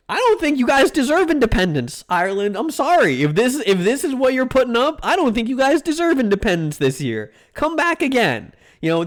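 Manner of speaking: high, haughty lecturing tone; high pitched condescending scold; mock scolding. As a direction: talk down to Ireland like a snooty Brit.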